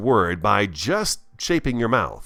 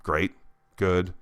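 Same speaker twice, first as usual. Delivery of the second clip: dull stock reply; much slower than usual. Shown as a demonstration. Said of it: "instead of saying".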